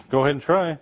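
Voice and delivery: put-on daring an old Russian brother to try a kiss, laughing and taunting; mock taunting dare. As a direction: egg him on with a grin, then call it out.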